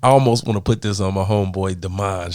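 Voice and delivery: ordinary talk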